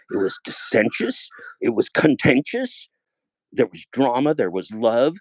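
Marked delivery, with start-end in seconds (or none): 0.1-2.9 1 drawn out. Real, not acted. Drawn-out dramatic list.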